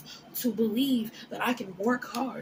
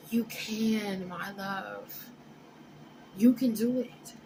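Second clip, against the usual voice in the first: tender reassurance; slower than usual. Real, not acted. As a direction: soothe them gently, almost a whisper. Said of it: "I'm here to tell you".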